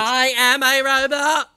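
robot voice. Pretend. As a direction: stiff machine reading its lines. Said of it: "my robot voice".

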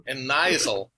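put-on Aussie accent; Australian accent. Guest disparages his real voice, still in fake Australian accent. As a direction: stick with the mock Australian accent. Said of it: "I should just pretend to do this".

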